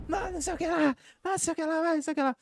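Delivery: high, loud rowdy buddy shouting; loud joker voice. Retold or imitated. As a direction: play the guy who shows up clowning and yelling. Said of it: "chegar zoando, falando altão".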